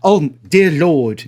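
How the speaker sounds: slow, hammy mock British accent; deliberately poor English accent; bad British accent. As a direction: drag out a clumsy British accent. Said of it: "That's a terrible U K".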